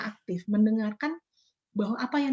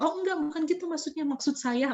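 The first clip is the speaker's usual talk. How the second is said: quick higher-pitched defensive denial; defensive excuse; 5 semitones higher than usual. Retold or imitated. Interviewer defending herself to the interviewee, mildly defensive. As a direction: brush off the blame, a little higher and hurried. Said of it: "kalian defense orangnya".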